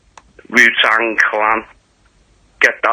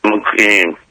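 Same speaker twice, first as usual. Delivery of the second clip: slurred speech. Real, not acted. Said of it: "'Cause you sound waste".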